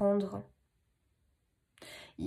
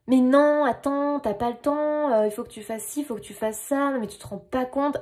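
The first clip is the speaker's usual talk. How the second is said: voice of the mind. Acted. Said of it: "ça c'est le mental".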